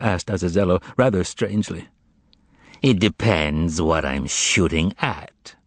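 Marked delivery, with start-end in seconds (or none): 2.8-5.5 reasonable. Acted. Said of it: "answered Azazello reasonably".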